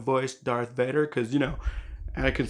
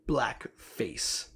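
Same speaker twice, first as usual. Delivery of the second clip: hushed whisper; 2 semitones lower, 6 dB quieter than usual. Real, not acted. Pause before a loaded word.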